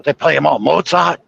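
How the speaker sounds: roughly imitated European accent; attempted European accent. European local listing composers to a visitor, lightly faked European accent. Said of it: "I'm trying to do the accent".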